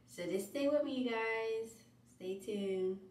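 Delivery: breathless sign-off to viewers; out of breath. Real, not acted. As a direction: talk while winded. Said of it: "I'm out of breath now".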